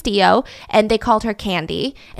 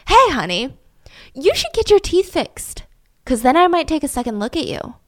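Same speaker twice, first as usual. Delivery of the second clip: mock-sweet put-down, pitched up on the jab; mock flirty insult; 3 semitones higher than usual. Diner customer insulting the waitress on her looks, mock-flirty. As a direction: play a rude customer toying with a waitress. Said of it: "He loved to insult them on their looks".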